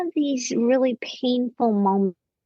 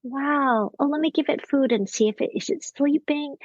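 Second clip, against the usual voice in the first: put-on higher-pitched wonder for a child; curious, talking to a little one; Mister Rogers; 4 semitones higher than usual. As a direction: imitate a children's host puzzling aloud. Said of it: "he's talking to a child".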